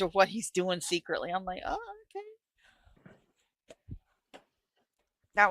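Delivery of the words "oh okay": soft, high, drawn-out reaction; slow high-pitched quoted "oh"; retold mild surprise. Viewer reacting to a TV twist, mock surprised.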